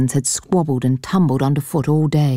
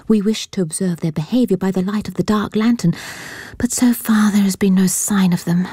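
put-on young girl; 3 semitones higher than usual. Young girl explains to stranger.

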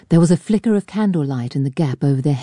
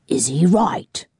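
bully whispering a threat while gripping his arm; menacing whisper; slower than usual. A narrator's reading. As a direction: hiss the question close to his ear. Fowler menacing.

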